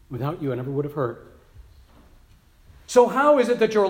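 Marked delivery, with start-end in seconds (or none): 0.1-1.3 quick repeat. Retold or imitated. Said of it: "she has said".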